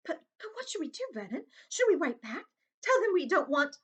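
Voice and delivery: high, anxious stammering voice; a panicky aunt fretting; frightened pleading. Acted.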